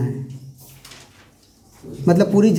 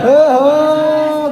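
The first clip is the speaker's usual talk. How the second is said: surprised ohho; 7 semitones higher, 4 dB louder, much slower than usual. Real, not acted. Teacher catches own maths slip.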